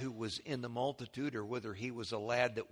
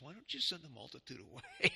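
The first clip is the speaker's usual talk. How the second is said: a touch higher, softer, lightly acted complaining disciples; imitating the disciples; 4 semitones higher, 4 dB quieter than usual. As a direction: play the grumbling disciples asking Jesus, lightly. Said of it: "talking like this".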